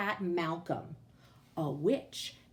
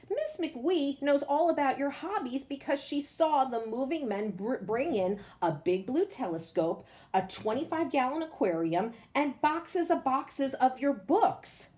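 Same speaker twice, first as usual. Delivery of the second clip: a hint of a patient mother, higher; lightly voiced mother; 4 semitones higher than usual. Mother explaining away the boy's witch theory, mildly patient. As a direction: explain it kindly like a sensible mum.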